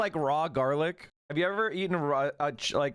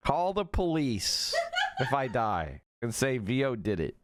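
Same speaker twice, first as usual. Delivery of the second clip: chuckling through a mock accusation, a touch lower; laughing joke; 5 semitones lower than usual. Real, not acted. Streamer jokes to chat her food is poisoned, laughing. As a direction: laugh while pretending it's poisoned.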